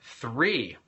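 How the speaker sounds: normal talking voice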